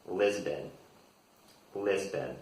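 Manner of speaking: "Lisbon" the American way, LIZ-bun; American pronunciation. Shown as a demonstration. Teacher modelling a European capital for learners, American "Lisbon". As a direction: say "Lisbon" with a z and a weak second syllable. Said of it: "this is my pronunciation".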